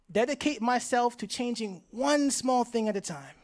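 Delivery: slow, measured call to repeat; deliberate pledge for an audience to echo; leading a pledge. Real, not acted. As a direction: lead the crowd phrase by phrase. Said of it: "repeat after me one time".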